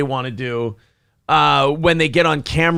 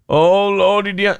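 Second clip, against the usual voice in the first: a hint of the Southern put-on; lightly voiced bayou accent; light mock Southern accent; 4 semitones higher than usual. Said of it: "Now talk the way I told you to talk".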